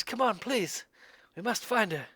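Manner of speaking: the stranger begs the party to hurry after him; pleading call. Acted. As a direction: call back to them, begging. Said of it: "he looks back and he says".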